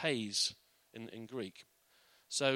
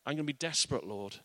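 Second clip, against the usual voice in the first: desperate prayer; 2 semitones higher than usual. Acted. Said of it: "We say".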